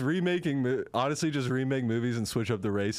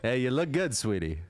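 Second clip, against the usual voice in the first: sleazy director. Acted. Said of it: "casting couch director".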